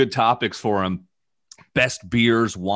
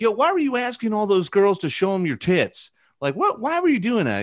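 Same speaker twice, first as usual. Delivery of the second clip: Tyson quote; 11 semitones higher than usual. Retold or imitated. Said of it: "He's like".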